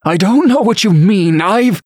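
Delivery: high-pitched flustered denial; panicked spluttering. A narrator's reading. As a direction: protest in a panic. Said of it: "The man spluttered some more".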